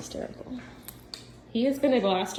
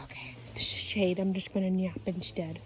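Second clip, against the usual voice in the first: low, quiet dog's inner voice; voicing the dog; 4 semitones lower, 7 dB quieter than usual. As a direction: lightly play a resigned dog, dropped down soft. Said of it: "He's like".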